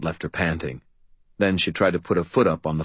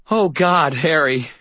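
relieved gasp; 10 semitones higher, 4 dB louder, slower than usual. Acted. Girl relieved at Harry.

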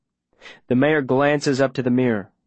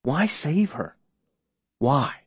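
fake surprise; 3 semitones higher, slower than usual. Mayor questioning Viola's loyalty, fake surprise. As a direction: ask it as if mildly baffled. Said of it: "making his voice do that fake surprised thing".

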